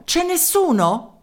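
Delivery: high, loud and slow call; calling out into an empty line; shouted into the phone. Acted. Mayor shouting into the silent receiver, loud. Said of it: "gridò Merelao nella cornetta".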